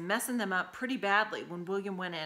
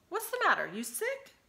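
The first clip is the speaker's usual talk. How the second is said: Dora's voice; 13 semitones higher than usual. A narrator's reading. Dora questions gloomy William.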